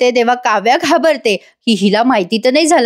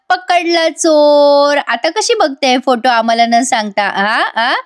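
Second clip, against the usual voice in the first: teasing; 3 semitones higher, slower than usual. Retold or imitated. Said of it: "या दोघी जणी तिला चिडवत म्हणतात".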